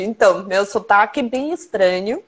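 usual speaking voice

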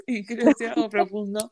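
mouth full. Real, not acted. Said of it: "Perdón, estoy comiendo".

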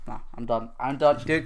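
soft, done-with-it brush-off. Retold or imitated. Brushing off the caller's threats, quietly. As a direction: mutter it like you've given up caring. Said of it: "I'm like".

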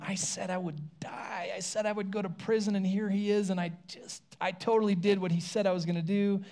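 regretful whisper. Retold or imitated. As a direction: murmur the regret to yourself. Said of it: "can you imagine letting Jesus down".

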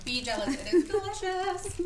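loud, high, gleeful boast; excited. Real, not acted. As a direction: rub it in with big delight. Playful boast about snack.

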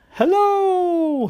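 high, loud squeaky fish. Acted. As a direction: squeak hello like a little fish. Fish character greets.

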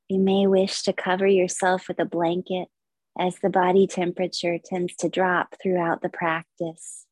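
measured, unhurried yoga nidra guidance; guided meditation. Acted. Yoga teacher leading listeners into stillness, guided meditation. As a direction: guide listeners through relaxation with long pauses.

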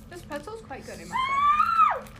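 high, slow posh voice. Pretend. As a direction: put on a fancy voice to praise the pretzel. Mock-posh comment on pretzel.

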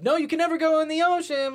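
high-pitched, exaggerated retold warning; mock warning. Retelling a film's plot to friends, mock warning.

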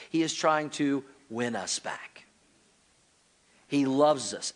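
slow soft whisper. Real, not acted. Preacher whispering God's love to the congregation. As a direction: breathe the hope gently. Tender sermon point.

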